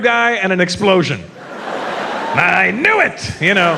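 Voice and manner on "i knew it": slow mock realization.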